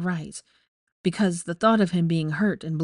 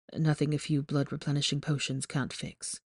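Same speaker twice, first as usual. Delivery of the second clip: put-on teasing young man voice; 3 semitones lower, 7 dB quieter than usual. A narrator's reading. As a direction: tease her from the hospital bed. Malfoy voiced, low.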